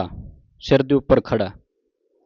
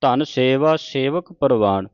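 slow, measured Gurbani reading; measured devotional recitation; scripture recitation; slower than usual. Acted. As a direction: recite each phrase deliberately, drawing out the vowels.

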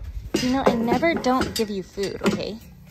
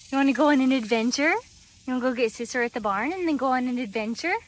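fast, bouncy pet talk; 3 semitones higher, faster than usual. Real, not acted. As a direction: hype the horse up for a trip. Excited talk to horse.

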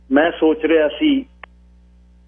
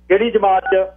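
higher, abrupt question; raised-pitch interrogation; demanding elder; 7 semitones higher than usual. A narrator's reading. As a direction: fire the question at the youngster. Angry elder interrogates the youth.

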